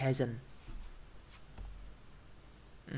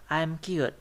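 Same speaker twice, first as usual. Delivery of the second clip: finished-sentence fall on "cute"; falling intonation; 2 semitones higher than usual. Shown as a demonstration. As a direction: let "cute" fall to show the sentence is over. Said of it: "falling or low".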